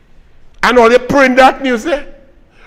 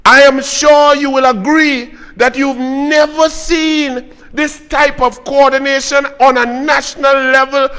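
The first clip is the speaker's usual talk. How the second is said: confident gusto; 3 semitones higher than usual. Acted. Quoting the minister's boast to the public, confident and full of gusto. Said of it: "say that with confidence and gusto".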